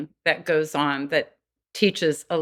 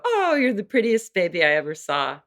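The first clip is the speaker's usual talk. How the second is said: mock doting baby talk; 3 semitones higher, faster than usual. Shown as a demonstration. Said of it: "or if she's saying".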